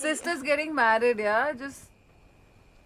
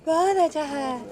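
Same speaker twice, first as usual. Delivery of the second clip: mock foreign-accented Hindi; much faster than usual. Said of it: "ये कैसे बोलते हो आप".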